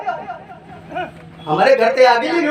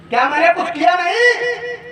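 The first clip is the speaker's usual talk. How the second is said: pitched up, with a laughing edge, lean on नहीं; indignant challenge; 3 semitones higher than usual. Shown as a demonstration. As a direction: throw the question back at the crowd. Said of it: "लेकिन क्या मैंने कुछ किया नहीं?".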